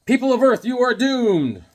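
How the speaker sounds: hammed-up supervillain decree; comic villain. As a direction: boom it out like a cartoon alien conqueror. Villain's comic-book proclamation.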